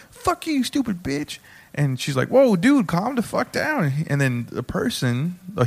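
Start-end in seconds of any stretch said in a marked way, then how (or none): 0.1-1.4 high, squeezed imitation of a heckler; mock heckler outburst. Heckler interrupting the show's host, mock angry outburst. 2.3-3.9 high whoa, then slowing down; mock-alarmed plea to settle down; startled host, imitated. Host answering an abusive heckler, imitated startled protest.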